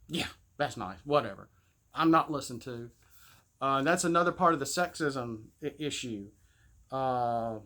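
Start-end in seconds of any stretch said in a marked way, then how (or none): 0.1-2.9 put-on dismissive kid. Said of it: "it's just flubbed off".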